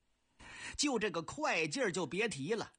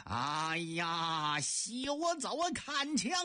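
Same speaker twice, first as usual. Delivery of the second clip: 喝令出枪; 3 semitones lower, slower than usual. Acted. 老将出枪大喝.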